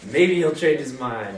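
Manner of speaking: lightly voiced Jonah eager for doom; mock Jonah. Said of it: "He's like".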